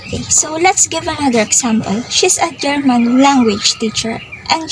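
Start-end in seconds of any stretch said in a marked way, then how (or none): 2.1-4.2 "language" given the weight, "German" left lighter; stress on language. Shown as a demonstration. Teacher showing she teaches German, stress on "language". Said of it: "The stress on language makes it clear".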